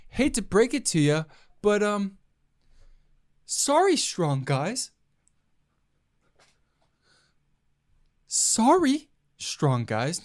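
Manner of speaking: mock apology with sorry jumping high; a cocky comedian's fake sorry; lightly voiced stand-up swagger; Chris D'Elia impression. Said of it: "that was my best Chris D'Elia impersonation".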